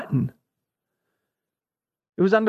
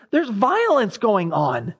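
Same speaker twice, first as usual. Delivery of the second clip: raised-pitch protest, no real scream; understated shrieking, pitched up in complaint; mock shriek; 6 semitones higher than usual. Habakkuk protests to God about disobedience, mildly shrieking. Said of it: "I shriek out and say".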